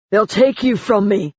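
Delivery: high, pleading plea; begging. A narrator's reading. Husband begging his wife. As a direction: beg her not to leave. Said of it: "he begged".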